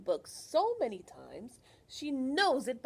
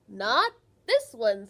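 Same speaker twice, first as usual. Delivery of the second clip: loud, slow proud librarian; 13 dB louder, slower than usual. Acted. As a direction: declare it proudly. Librarian's line in story.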